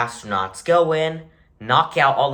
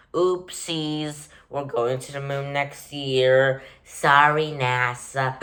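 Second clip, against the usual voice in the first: gloating China voice; 3 semitones higher than usual. Retold or imitated. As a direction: taunt NASA like a smug rival. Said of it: "China is gonna go".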